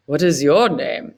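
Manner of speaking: lightly voiced South Indian accent. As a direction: ask it with a South Indian lilt. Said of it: "he asks in a very South Indian accent".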